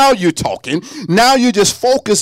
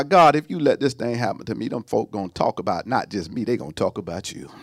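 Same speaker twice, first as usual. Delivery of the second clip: breaking it down; 9 semitones lower, 8 dB quieter than usual. Retold or imitated. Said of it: "I'm gonna break it down now".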